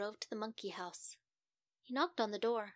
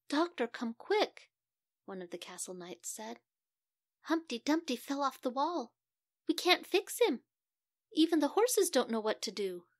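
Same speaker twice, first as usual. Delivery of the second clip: higher, louder, breathless alarm of a castle knight; urgent knight; 3 semitones higher, 7 dB louder than usual. Acted. Knight urgently calls the doctor about Humpty, higher and louder. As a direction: knight begging the doctor to hurry, panicked.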